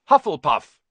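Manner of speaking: the Sorting Hat bellows the house; hat's shout. A narrator's reading. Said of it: "shouted the hat".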